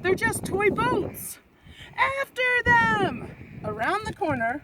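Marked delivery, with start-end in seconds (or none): 0.0-3.3 high, slow, loud Viking order; scoff, then call the charge; scornful then shouted. A narrator's reading.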